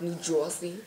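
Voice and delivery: New Jersey accent, "Jersey" said as "Joisey". Shown as a demonstration. Showing friends that New Jersey has an accent, New Jersey accent. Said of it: "they got like an accent".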